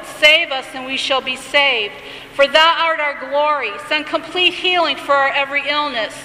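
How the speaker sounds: lightly intoned liturgical reading; a hint of solemn recitation; prayer reading. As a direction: read it as a gentle prayer. Reads the healing blessing.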